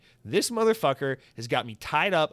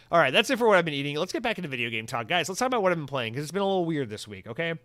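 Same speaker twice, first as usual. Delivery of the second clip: energetic segment switch; 4 semitones higher, 5 dB louder, faster than usual. Real, not acted.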